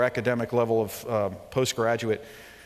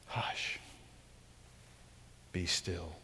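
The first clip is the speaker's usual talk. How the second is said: whispered, barely audible "Hush"; a hushed echo of the command; 7 semitones lower, 15 dB quieter, much slower than usual. Pretend. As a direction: hush them like a sleeping child. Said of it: "preacher echoing Jesus softly".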